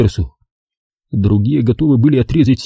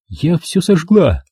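higher, slow, a hint of defiance; defiant; 7 semitones higher, slower than usual. A narrator's reading. Girl defying Bolan over the burned papers, defiant. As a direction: throw it at him as a dare. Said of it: "сказала она с вызовом".

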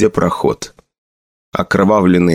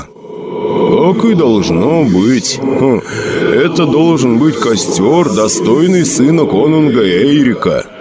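ghostly father voice; 2 semitones higher, slower than usual. Acted. Голос призрака отца.

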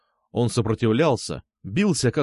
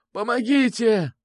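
wheezed, slow, much higher cry for help; hoarse plea; 11 semitones higher, slower than usual. Acted. Wounded blogger wheezes for help, hoarse and slow. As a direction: rasp it out through blood. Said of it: "прохрипел он".

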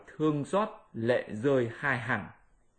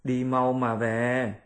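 glad master; much slower than usual. Acted. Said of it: "rất mừng nói".

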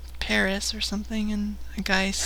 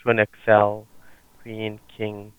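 call center agent; 11 semitones lower, 6 dB louder, faster than usual. Acted. Prank call, plays sales agent.

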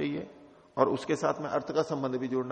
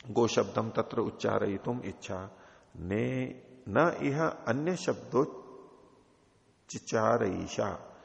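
slow, measured Sanskrit recitation; sutra recitation; 2 semitones lower, slower than usual. Shown as a demonstration. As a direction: intone the sutra slowly, word by word. (धीमा, नपा-तुला सूत्र पाठ)

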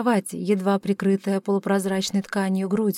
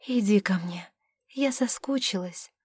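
whispering; 4 dB quieter than usual. Acted. Lover beckons him to bed.

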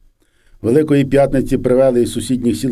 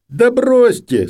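much higher, dismissive snap; scornful senior soldier; 13 semitones higher, 4 dB louder, much slower than usual. A narrator's reading. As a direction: wave her excuse away in scorn. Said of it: "сказав найстарший". (зневажливий високий вигук старшого солдата)

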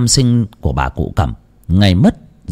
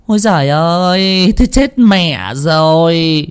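much higher alarmed exclamations; startled outcry; 11 semitones higher than usual. A narrator's reading. Fortune-teller cries out in alarm at the reading. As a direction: cry out in shock at bad omens. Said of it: "thảng thốt kêu lên".

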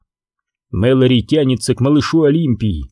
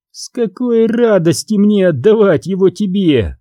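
hoarse; 7 semitones higher than usual. Acted. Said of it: "хрипит Олимпия".

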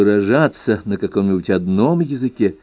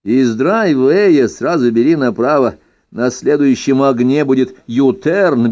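mock emigre chatter. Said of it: "извергаешь тех помои".

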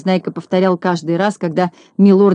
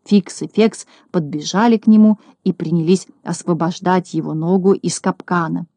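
ordinary delivery

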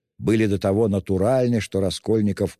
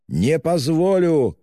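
much higher, louder, slow shout; furious shout; 11 semitones higher, 6 dB louder, slower than usual. A narrator's reading. Raskolnikov refusing the investigator, slow furious shout. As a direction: roar it out once more. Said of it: "крикнул было другой раз".

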